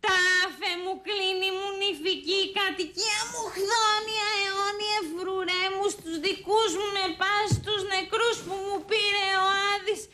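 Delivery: half-sung lament, held steady; slow lament recital; tragic recitation. Shown as a demonstration. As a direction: intone it like a mourning chant. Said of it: "απ' την αρχή".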